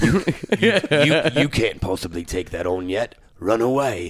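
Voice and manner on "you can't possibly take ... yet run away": low, slow British trailer narrator voice. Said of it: "It was like this British voice".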